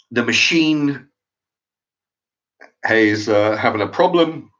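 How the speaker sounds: a light imitation of a recorded till announcement; hint of an automated till voice; self-service till voice. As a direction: read it like the machine's canned message, only lightly voiced. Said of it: "That's the noise coming out of the machine".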